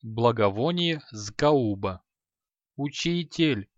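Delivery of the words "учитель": a pained, drawn-out moan.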